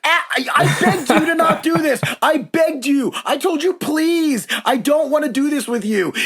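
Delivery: high-pitched laughing plea, half joking. Retold or imitated. Retold pleading with heckler, laughing.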